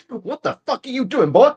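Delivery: a jokey put-on tough voice barking at the worker; funny voice. Mock scolding the bullying employee in a put-on voice. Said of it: "a black accent there".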